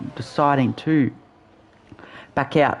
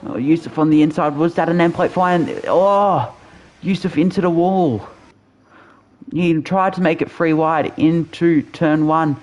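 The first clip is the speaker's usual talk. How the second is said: excited motorsport commentator; 4 semitones higher than usual. Real, not acted. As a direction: call the crash as it happens. Crash called live in race.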